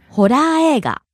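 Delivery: ホラー映画 rising on ラ, falling on the second-to-last い; pitch accent demo. Shown as a demonstration. Teacher models vocabulary, ホラー映画 rising on ラ and falling on い. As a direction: lift ラ in ホラー映画, drop at the い of 映. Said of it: "Rises on the second syllable ra and falls".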